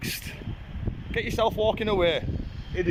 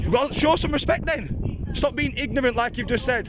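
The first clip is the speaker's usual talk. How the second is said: demanding; 3 semitones higher, slower than usual. Real, not acted. Demanding respect from officers.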